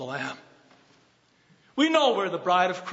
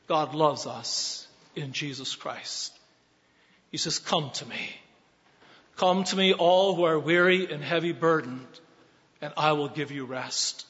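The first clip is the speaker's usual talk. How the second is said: tender invitation; 3 semitones lower than usual. Acted. Tender voicing of Christ's invitation.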